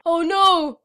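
high, loud, slow wail of dismay. Retold or imitated. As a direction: cry it out heartbroken. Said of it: "He's like".

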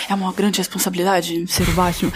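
low mock-serious hero declaration; Batman. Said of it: "falando com a voz do Batman".

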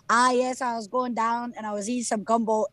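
lightly imitated Cajun accent. Daughter doing the family accent for dad, hammed Cajun. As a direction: put on a mildly butchered Cajun accent. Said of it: "like, Cajun accent for my dad".

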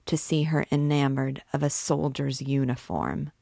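tormented priest pleading, voice rising in passion; anguished priest. Acted. Priest begging the gypsy girl, anguished pleading. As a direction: beg her like a man on the rack.

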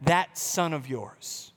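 slow, low, disdainful quote; a hint of contempt for the brother; cold dismissive. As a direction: spit out that son of yours coldly. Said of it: "he says".

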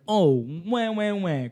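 imitating a whiny crybaby; mock whining. Co-host mocking Veronica's complaint about wine, mock whining. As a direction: put on a mild mocking wail. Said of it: "Veronica came in here and was like".

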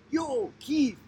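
imitating a friend's high-pitched hail; calling out. Student hails his friend after the meal, calling out high.

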